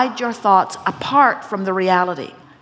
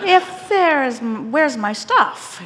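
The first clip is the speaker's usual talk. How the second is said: mock the questioner, pitched higher; slow, teasing imitation of a sceptical demand; 5 semitones higher, much slower than usual. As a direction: tease with a raised, mocking voice. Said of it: "mocking tone".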